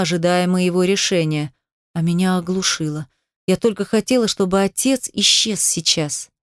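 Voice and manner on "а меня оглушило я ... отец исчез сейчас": usual speaking voice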